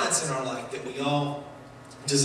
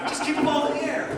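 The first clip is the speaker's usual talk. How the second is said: quick repeated motto; 9 semitones higher, faster than usual. Retold or imitated. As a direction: rattle it off again quickly. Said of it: "my philosophy is".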